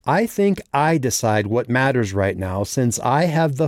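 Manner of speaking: high, forceful, furious retort; angry assertion. A narrator's reading.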